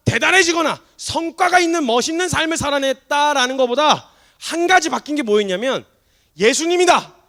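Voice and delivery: loud, high, fervent sermon climax; impassioned preacher's cry; full-force preaching. Acted. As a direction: drive it home to the congregation.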